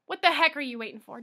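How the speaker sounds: ordinary delivery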